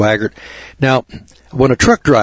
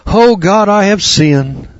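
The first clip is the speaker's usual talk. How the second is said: high, louder hammed-up sob of a caught preacher; mock tearful confession; 9 semitones higher, 3 dB louder, slower than usual. Caught preacher mock-weeping to God, high and loud. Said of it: "And then tears streaming down his face".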